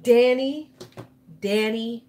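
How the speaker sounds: loud call across the house. Real, not acted. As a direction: call his name from afar. Calling someone in another room.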